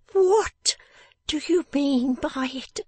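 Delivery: "What" high, loud and set apart by a pause; emphasized "What". A narrator's reading. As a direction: hit "What" hard, then slow high scolding. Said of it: "There was something in that emphasized what".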